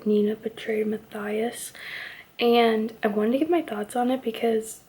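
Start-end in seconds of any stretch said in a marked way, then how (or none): 2.4-4.8 talking with a retainer in. Real, not acted. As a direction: speak around a dental retainer. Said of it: "Sorry, I have my retainer in".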